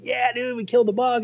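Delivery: high, excited retold cheer; pumped cheer. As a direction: cheer like you just landed the buck. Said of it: "Like, I was pumped".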